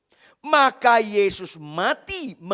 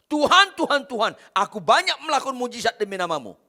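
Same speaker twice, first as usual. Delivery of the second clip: crying out; 3 semitones higher, 3 dB louder, faster than usual. Retold or imitated. Preacher voicing miracle workers crying out, loud then fast. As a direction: shout to the Lord, then hurry through the boast. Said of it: "banyak orang teriak".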